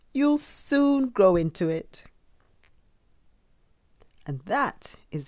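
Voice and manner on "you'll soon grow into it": high, loud, drawn-out encouragement; cheery reassurance. A narrator's reading. Dad handing Douglas his hat, cheery reassurance. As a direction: cheer him up, stretching it out.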